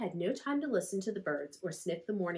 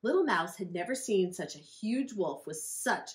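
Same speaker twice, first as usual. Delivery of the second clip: plain reading voice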